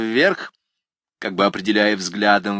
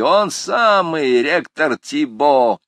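eager shout; 6 semitones higher, 6 dB louder, much slower than usual. Acted. Students answering.

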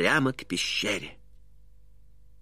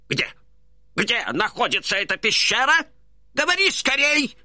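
rising higher, urgent and pushy; impatient; 10 semitones higher than usual. A narrator's reading. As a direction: demand it right now. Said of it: "в нетерпении вскричал Касим".

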